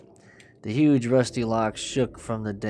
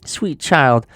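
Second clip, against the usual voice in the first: amiable; 4 semitones higher, 10 dB louder than usual. Acted. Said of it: "The woman's voice suddenly became amiable".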